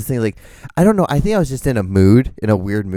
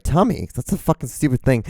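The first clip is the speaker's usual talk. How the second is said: slightly irritated; 3 semitones higher than usual. Retold or imitated. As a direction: scoff with a touch of irritation. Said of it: "just slightly irritated".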